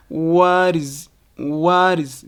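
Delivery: "What is" linked with a soft D. Shown as a demonstration. Teacher showing American accent, soft D in "What is". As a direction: tap the T in "What is" like a D. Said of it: "The T in what can become a soft".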